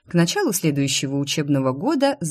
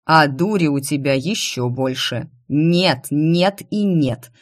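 angry refusal; slower than usual. Acted. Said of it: "Сердито подхватив с мостовой свёртки".

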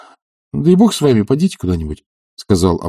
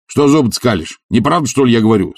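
a hint of Tarantyev's scorn; slightly raised offended bluster; lightly voiced bully; 2 semitones higher than usual. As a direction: bristle at being laughed at. Tarantyev snaps at laughter.

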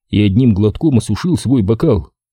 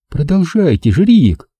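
put-on urging girl voice; 7 semitones higher than usual. A narrator's reading. Katie urging.

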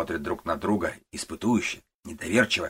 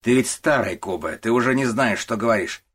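contemptuous boss; 4 semitones higher, 6 dB louder than usual. Acted. Начальник унижает старика.

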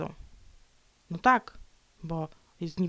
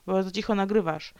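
ordinary talk

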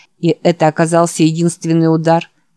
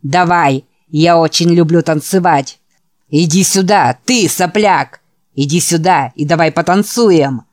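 snarling taunt. Acted. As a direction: snarl it, spitting with contempt. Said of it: "Продолжая рычать и брызгать слюной".

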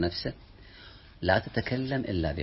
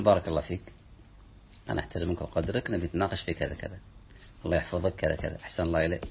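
polite respect; 4 semitones lower, 5 dB quieter, faster than usual. Pretend. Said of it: "تقول".

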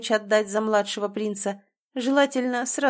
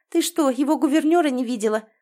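higher, louder, last words slowed in mockery; scornful snort; 6 semitones higher, 5 dB louder than usual. A narrator's reading. Drizella mocking her sister's mix-up, scornful snort. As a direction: scoff at her foolishness. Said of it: "фыркнула Дризела".

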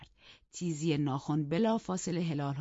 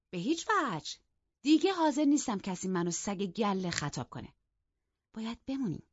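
loud refusal; 6 semitones higher than usual. Acted. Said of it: "با صدای بلند گفت".

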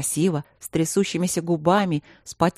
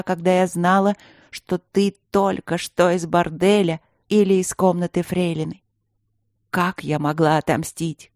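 queen reproaching the king for her lost love; wounded queen. Acted. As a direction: lay out every betrayal.

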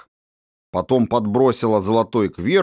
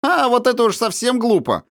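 laughing; 3 dB louder than usual. A narrator's reading. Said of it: "снова рассмеялась Аля".

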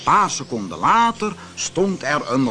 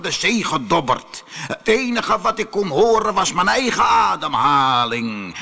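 raised, dramatic genie voice; aggrieved genie; 4 semitones higher than usual. Acted. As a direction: tell the old grievance as an imposing spirit. Genie tells his story. (verongelijkte geest die zijn verhaal doet)

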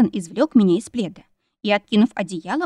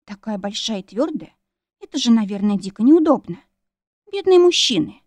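sympathetic. Acted. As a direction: feel sorry for them, mockingly earnest. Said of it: "посочувствовала им".

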